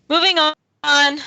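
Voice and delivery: slow and loud, stretched out; drawn-out announce. Real, not acted. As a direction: drag out the words to close the topic.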